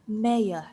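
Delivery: "mayor" said as "meh-uh" with no R at the end; British mayor. Shown as a demonstration. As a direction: drop the R in "mayor", British style. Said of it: "in British".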